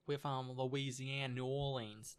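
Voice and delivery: slow, easy Louisiana drawl; lightly done New Orleans accent; Louisiana Southern tang. Shown as a demonstration. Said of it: "a good old Southern tang".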